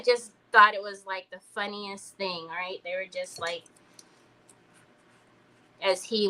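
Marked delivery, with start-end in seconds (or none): none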